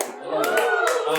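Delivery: "I love that" dicho muy agudo y lento; drawn out in a squeaky high voice; high, stretched "I love that". Real, not acted.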